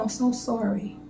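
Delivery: softly imitating a friend's sympathy; compassionate. Friend consoling her after she cried, retold with soft compassion. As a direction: retell her soft, caring apology. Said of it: "hearing the compassion in her voice".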